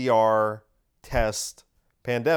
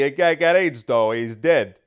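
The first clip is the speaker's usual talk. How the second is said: louder, offhand mock dismissal; loud mocking impression of a dismissive official; mock Fauci voice; 4 dB louder than usual. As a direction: shrug it off loudly in a put-on voice. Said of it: "doing that voice for Fauci".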